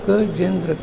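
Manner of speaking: "गजेंद्र" lightly parted into syllables; split into syllables. Shown as a demonstration. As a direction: repeat "गजेंद्र" piece by piece. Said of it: "तीन चार बार बोलो".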